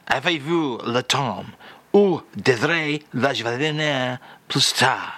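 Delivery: slow, careful French phrase demo; slow French phrase read. Shown as a demonstration. The speaker reads out the French phrase of the day, slowly. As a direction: present it as a lesson phrase. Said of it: "Do it again".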